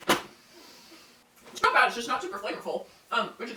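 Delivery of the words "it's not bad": drawn out. Real, not acted. Tasting, drawn-out verdict.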